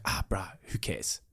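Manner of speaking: breathy dismissive whisper, under the breath. Retold or imitated. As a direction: shrug it off in a hushed whisper. Retold inner voice shrugging off.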